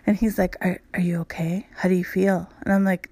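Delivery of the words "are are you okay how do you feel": softer, hushed worried whisper; mock hushed concern. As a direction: whisper gently as she wakes. Partner checking on her morning.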